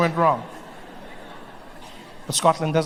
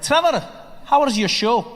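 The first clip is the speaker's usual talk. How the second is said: slow, higher Scottish Mick voice; Scottish accent; 6 semitones higher than usual. Retold or imitated. Mick greets Trevor after the show, higher, slow Scottish voice. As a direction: put on Mick's Scottish lilt.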